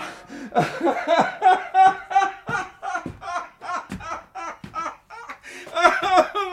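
high, long half-laughing wail; hysterical laugh-sob. Acted. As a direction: break into a mad laugh-cry. Miser's wail of despair.

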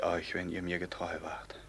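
dropping to a grim whisper; ominous whisper. Acted. Captain warning his men, dark whisper. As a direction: threaten under your breath.

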